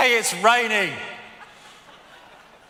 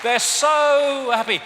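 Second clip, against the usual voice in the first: sarcastic; 6 semitones higher, 5 dB louder, slower than usual. Real, not acted. Sarcastic about smiling royals.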